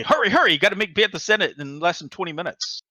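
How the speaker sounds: rushed-sounding plea, lightly acted; retold urgent text. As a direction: hurry someone along, mock urgency.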